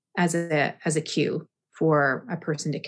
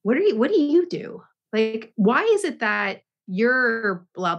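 lightly acted, higher-pitched curious questioning; imagined curious questioner; 4 semitones higher than usual. Someone asking the yoga teacher what they do, in a lightly acted curious voice. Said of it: "someone might say to me".

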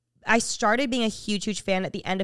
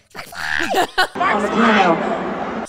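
louder, laughing mock yell of a song name; retold concert scream; 6 dB louder than usual. Retelling Steph's shout from the crowd, laughing mock yell. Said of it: "you hear Steph in the back go".

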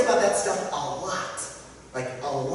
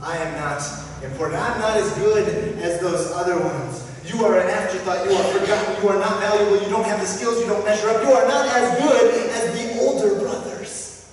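inner voice building; 4 dB louder than usual. Acted. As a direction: let the put-downs swell to a loud accusation. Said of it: "How many of you have heard".

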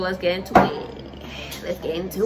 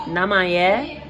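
Liberian accent; slower than usual. Shown as a demonstration. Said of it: "Liberian accent".

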